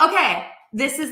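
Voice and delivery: whispered through laughter; laughing whisper. Real, not acted. Telling viewers the funny story, whispering through laughter. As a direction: giggle while whispering fast. Laughing at brown-eyes coincidence.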